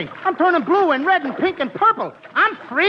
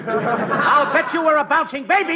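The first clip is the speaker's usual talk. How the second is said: said again louder for attention; louder repeat. Shown as a demonstration. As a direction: repeat it so they hear. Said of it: "Nobody hears me".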